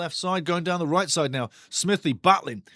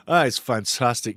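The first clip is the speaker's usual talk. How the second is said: sarcastic; 4 semitones lower than usual. Acted. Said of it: "You can't have enough sarcasm ever".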